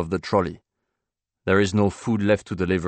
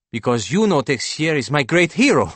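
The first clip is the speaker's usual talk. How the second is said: high, loud voice of an enthused painter; eager painter, suddenly engaged; 8 semitones higher, 8 dB louder than usual. Acted. Painter telling banker of a great hero, eagerly. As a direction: play the painter thrilled to share a hero.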